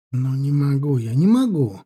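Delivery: mild outburst of helpless refusal; exclaiming. A narrator's reading. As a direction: protest that rises on the repeat. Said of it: "воскликнул он и вскочил на ноги".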